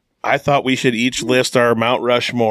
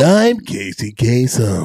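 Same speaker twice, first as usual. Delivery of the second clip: Casey Kasem impression. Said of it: "Nice falsetto".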